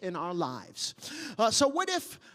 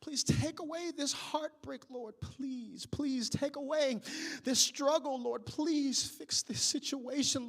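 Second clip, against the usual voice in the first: soft prayer; 6 dB quieter than usual. Retold or imitated. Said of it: "you've whispered from your pillow".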